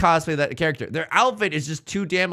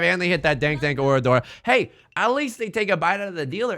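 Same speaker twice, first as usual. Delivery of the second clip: usual speaking voice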